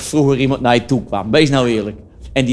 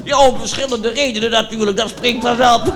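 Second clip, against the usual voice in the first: raised-pitch cheerful comic character voice; Dirk Dickenberg character; 7 semitones higher than usual. Acted. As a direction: play the tactless joker Dirk, pitched up. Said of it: "dat is een typetje".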